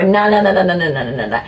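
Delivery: string of refusals sliding down in pitch; Vicar of Dibley reversal. Retold or imitated. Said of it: "a bit like the Vicar of Dibley".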